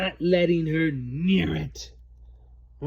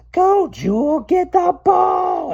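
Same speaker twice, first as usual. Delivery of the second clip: yell; 14 semitones higher, 9 dB louder than usual. Acted. Girl yelling at her dog to fetch the ball, high shout. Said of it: "I yell".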